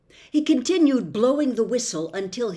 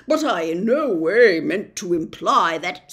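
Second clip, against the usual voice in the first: nervous humbug; 7 dB louder than usual. Acted. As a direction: bluster politely while laughing nervously. Humbug protests.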